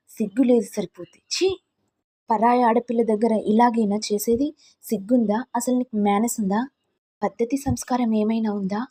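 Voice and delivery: indignant rebuke with a disgusted ఛీ; angry scolding. Acted. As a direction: scold him for his shamelessness, sharp but not shouting. Wife scolds man in her lap.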